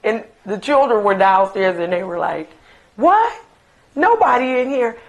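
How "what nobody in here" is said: surprised. Retold or imitated. Children answer mother.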